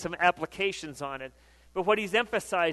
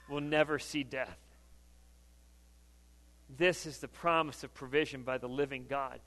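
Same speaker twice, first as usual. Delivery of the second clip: soft, measured, sinking lower; hushed, solemn close; 4 semitones lower, 6 dB quieter than usual. Real, not acted. Preacher promising life to all mankind, hushed. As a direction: bring the message gently to rest.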